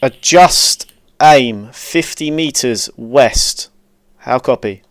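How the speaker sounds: slow, deliberate radio correction; calm radio call for fire. Real, not acted. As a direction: spell out the correction slowly.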